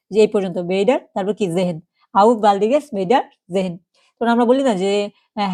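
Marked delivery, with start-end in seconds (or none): 2.1-3.7 "auf baldiges Wiedersehen" said slowly in one flow; whole phrase joined. Shown as a demonstration. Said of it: "যদিও একসাথে উচ্চারণ না করতে পারেন".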